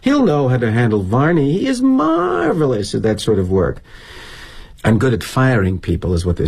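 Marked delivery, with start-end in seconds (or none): 0.0-3.8 mock colleagues. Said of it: "they perceive me as a sort of gentleman farmer".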